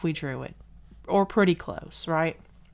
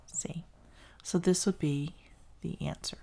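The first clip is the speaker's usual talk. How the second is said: hushed, almost whispered; whispered aside; 7 dB quieter than usual. Real, not acted. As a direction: drop to a whisper for the answer. Quiet aside at the answer.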